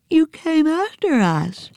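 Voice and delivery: put-on high girl's voice, lightly muffled; Nancy, mouth full. Nancy speaking through banana to Hati, high voice. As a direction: talk round the banana. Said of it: "through a mouthful of banana".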